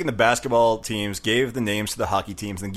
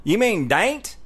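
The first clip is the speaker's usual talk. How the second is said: high-pitched Southern local; local Southern accent; 9 semitones higher, much slower than usual. Retold or imitated. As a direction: correct him in a high Southern twang. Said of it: "they all talk like that".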